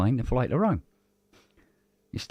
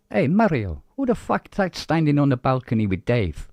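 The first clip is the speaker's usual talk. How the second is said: higher, louder crowd shout; a hint of an Italian bloke; 5 semitones higher, 5 dB louder than usual. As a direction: call out to a mate in the crowd.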